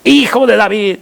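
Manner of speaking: acted beggar's appeal; calling out. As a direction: call out to be noticed, begging for mercy. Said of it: "comenzó a dar voces".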